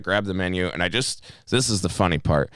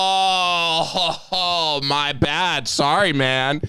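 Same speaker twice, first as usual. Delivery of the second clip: high, drawn-out "oh" of realization; pitched-up mock embarrassment; mock sheepish apology; 9 semitones higher, much slower than usual. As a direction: imitate an oblivious guy apologizing. Retold customer sees his mistake.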